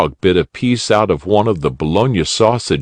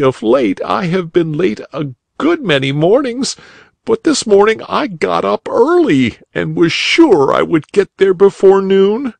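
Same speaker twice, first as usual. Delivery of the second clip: put-on tearful boy; 13 semitones higher than usual. A narrator's reading. Crying boy answering the rabbit, high young voice. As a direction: play the upset schoolboy, pitched up. Boy explains being late.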